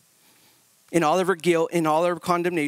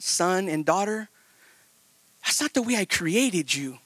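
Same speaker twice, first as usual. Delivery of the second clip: tender Father. Retold or imitated. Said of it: "the Father's heart".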